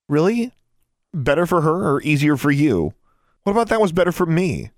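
shrill furious challenge; angry outburst. Acted. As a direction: let the anger burst out at her father. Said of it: "Alexandra asked angrily".

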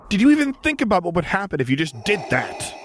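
almost lose it on him; near yell. A narrator's reading. Luke nearly yells at reckless Vader. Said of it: "he nearly yelled".

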